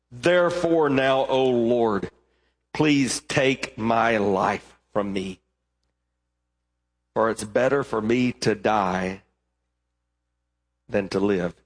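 low, slow, sinking plea; despairing plea. Acted. Jonah begging God to take his life. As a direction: give up and ask to die. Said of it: "He was angry".

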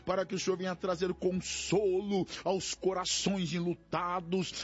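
impassioned, pleading prayer in rolling phrases; fervent prayer. Real, not acted. Pastor interceding with God for despairing, grieving, oppressed people, fervent prayer. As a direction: cry out to God, drawing out key words.

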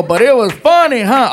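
mock girl voice, lightly done; talk like a girl. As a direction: quote it in a loud, lilting imitation of a girl. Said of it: "you talk like a girl".

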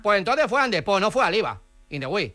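put-on foreign accent with L for R; foreign-accented broken Spanish; mock foreign accent. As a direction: play a foreigner mangling Spanish, R turned to L. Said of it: "no entiendo yo de".

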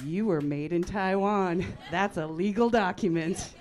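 triumphant accusation. Retold or imitated. Retelling convincing her sister she was adopted, loudly insistent. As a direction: declare the proof loudly and deliberately. Taunts sister with supposed proof.

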